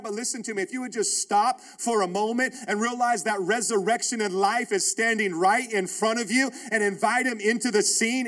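rising, pressing sermon appeal; fervent preaching. Acted. Pastor urging his congregation, rising preaching appeal. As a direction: drive it home to the church.

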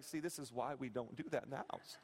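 low, soft teaching-moment voice; understated I-told-you-so; mock dad lecture. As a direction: calmly lecture a wailing kid, low and quiet. Dad lecturing his crying child.

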